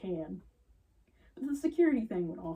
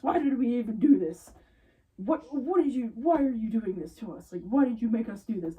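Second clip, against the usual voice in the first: mock Karen complaint; 3 semitones higher, 5 dB louder than usual. Customers' complaint mocked.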